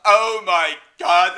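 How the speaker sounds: loud, drawn-out mock horror; slow, blaring oh-my-God; shocked. Imitating everyone watching the failed landing, loud mock shock.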